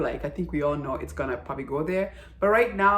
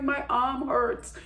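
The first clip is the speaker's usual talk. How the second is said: high, slow mock whine; pretend-weepy, slow and high-pitched; imitated crying complaint; 6 semitones higher, slower than usual. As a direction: play a tearful daughter, drawn out and higher. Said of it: "she's coming at home crying".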